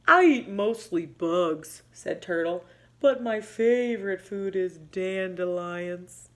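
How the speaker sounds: slow, plodding turtle voice; a hint of a sleepy old turtle. Box Turtle slowly asking what equal means.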